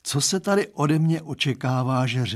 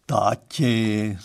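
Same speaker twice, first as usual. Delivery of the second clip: 1 pleading; 3 semitones lower than usual. Acted. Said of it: "zaprosila směrem k němu Lucka".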